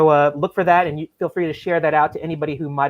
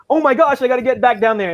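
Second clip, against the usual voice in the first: higher, louder rushed exclamation; retold urgency; 5 semitones higher, 4 dB louder than usual. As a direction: imitate someone who must dash back. Retells Kyle rushing back.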